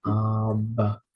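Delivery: Abba, both syllables clear and even; teacher demonstrating Abba; Greek vocabulary word. Shown as a demonstration. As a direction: model Abba for students to repeat. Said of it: "Next word is".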